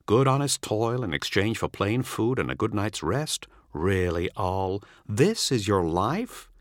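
a hint of a sneering friend; mocking old comrade. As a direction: tease him about his farm life. Visitor mocks farmer's new life.

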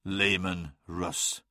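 slow, low, hushed naming; grim realisation. A narrator's reading. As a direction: let the name fall slowly and softly. Grim realisation, voiced in narration.

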